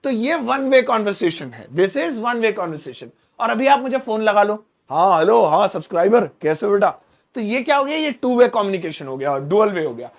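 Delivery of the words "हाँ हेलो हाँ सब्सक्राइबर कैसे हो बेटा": loud, cheerful hello on the phone; phone call greeting. Pretend. (फ़ोन पर ज़ोर से hello)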